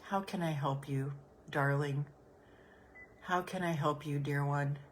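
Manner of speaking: soft, tender question; quiet, loving How can I help you. Shown as a demonstration. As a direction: ask gently, like comforting a child. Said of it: "just say".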